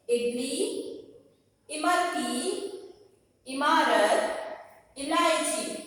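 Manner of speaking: each word drawn out on its own; stretched-out word-by-word teacher reading; read-along pronunciation. Shown as a demonstration. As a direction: model इडली, इमरती, इमारत, इलायची slowly, pausing after each. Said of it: "इन्हें साथ में कैसे पढ़ेंगे".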